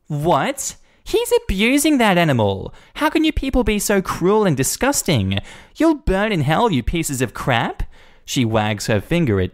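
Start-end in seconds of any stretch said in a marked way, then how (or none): 0.1-7.8 much higher, indignant tirade; outraged Karen. Acted. Karen condemning the staff, high-pitched outrage. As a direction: rant like she is scandalized.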